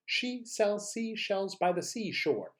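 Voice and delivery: slightly high, moderately paced drill. Shown as a demonstration. Quicker repeat of the tongue twister.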